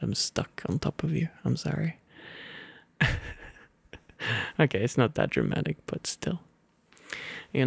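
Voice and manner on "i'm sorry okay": plain reading voice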